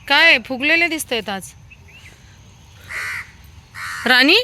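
playful loud dog talk. Real, not acted. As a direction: coax and tease the dogs. Talking to dogs fondly.

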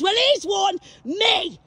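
shouting a dare at rivals; defiant shout. Real, not acted. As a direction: throw down the challenge. Challenge shouted.

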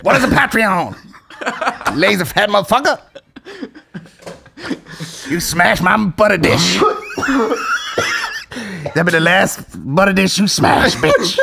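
mock indignant stand-up rant; Dave Chappelle impression. Mother berating lazy son, mock stand-up impression. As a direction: scold in punchy comic bursts. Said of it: "with the Dave Chappelle voice".

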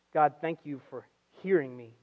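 soft, low, measured thanks; quiet prayer. Retold or imitated. Preacher cites Jesus's phrase to the congregation, quiet prayer. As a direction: say the prayer gently and unhurried.

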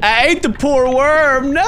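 high, slow rising wail; hammed-up grief ending in a long "no"; mock horrified lament. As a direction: draw it out in dismay. Realizes worm was eaten.

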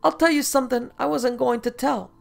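a high, slurring showman leering as he confides; drunken leer. Acted. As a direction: sound tipsy and sly, letting him in on a secret. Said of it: "he leered drunkenly".

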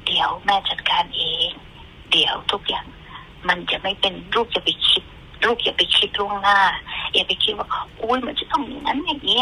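soothing mother. Retold or imitated. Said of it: "แม่ก็จะไปนั่งข้างๆเขา แล้วแม่ก็จะลูบ". (แม่ปลอบลูกด้วยเสียงเบาและช้า)

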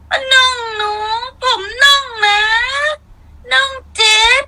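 put-on very high wailing child voice, crying and calling out in Isan dialect; mocking impression of a child crying loudly for mom. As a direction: mimic a sobbing little boy shouting for his mother, shrill and high. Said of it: "น้องก็บอกว่า".

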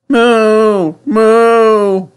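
high, loud little calf moos; wailing calf. A narrator's reading. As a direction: wail like a calf missing its mother. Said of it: "wailed the calf".

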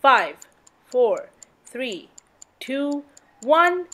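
counting down, then a high cheer; new year countdown crowd. Pretend.

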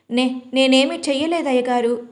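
scared maid stumbling on the first word; stammering. Acted. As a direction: get the words out haltingly, lightly afraid. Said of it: "అని చెప్పింది తడబడుతూ".

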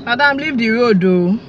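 loud, threatening shout; angry shout. Acted. Driver shouting at the woman blocking the car, angry. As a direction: bark at her to get off the road.

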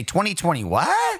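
mock-baffled, pitch leaping on the last word; mock confusion. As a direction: play dumb, squeak up on "what". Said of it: "And you say".

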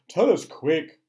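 loud, impatient plea; frantic begging; urgent cry. A narrator's reading. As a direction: demand it desperately. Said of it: "cried the earthworm".

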